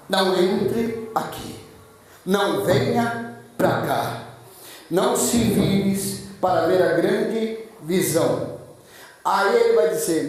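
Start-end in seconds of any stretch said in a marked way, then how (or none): 0.1-8.6 slow, measured warning with pauses; God's voice, slow and deliberate; solemn divine command. Acted. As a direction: spell out the command slowly, phrase by phrase. God's voice calling to Moses.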